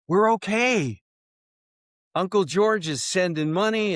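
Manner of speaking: bright and high, selling the dream; retold excited reassurance. Husband tells his young bride of the move, excited and high. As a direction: lift it up, eager to convince her.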